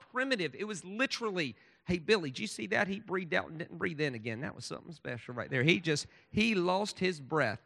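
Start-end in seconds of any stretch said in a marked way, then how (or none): 1.9-7.6 a hint of an Alabama old-timer telling Billy; mild Alabama country voice; Alabama accent. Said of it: "excuse my Alabama accent there".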